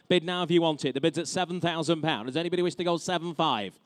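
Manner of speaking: brisk auction bid calling; auctioneer. Real, not acted. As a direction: rattle off the bids like an auctioneer.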